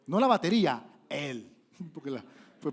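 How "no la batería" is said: mock exclamation. Punchline shouted.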